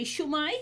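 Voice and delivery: "Shwmae" as SHOO-my, with a rise; South Wales pronunciation. Shown as a demonstration. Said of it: "if you're in South Wales".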